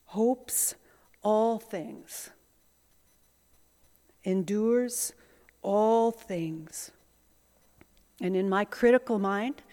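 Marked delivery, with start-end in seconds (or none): 0.1-6.9 breathy whisper, slow. Shown as a demonstration. Preacher whispering hopes all things to the congregation. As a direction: whisper the words like a secret.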